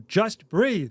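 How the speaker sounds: imitating himself losing patience; dad telling a screaming daughter to breathe, mock exasperated; exasperated yell. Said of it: "And I will notoriously yell".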